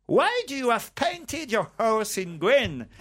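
mock English accent. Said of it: "il faut savoir bien faire l'accent anglais".

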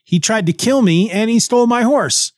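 comically torn and unsure; hesitating. Retold or imitated. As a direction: waver aloud over a grudge. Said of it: "he hesitates for a moment".

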